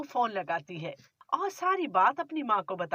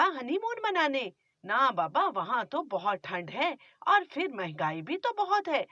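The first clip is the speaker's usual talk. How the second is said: scolding, grumbling mother-in-law; a nagging miser of a mother-in-law; stingy mother-in-law; 3 semitones higher than usual. Acted.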